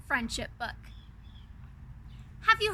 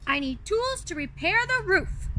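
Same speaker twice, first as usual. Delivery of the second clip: grumpy Beast; 4 semitones higher than usual. Acted. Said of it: "he said grumpily".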